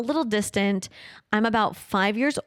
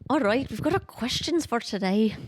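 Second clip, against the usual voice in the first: Irish accent. Real, not acted. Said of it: "I was suddenly in an accent there".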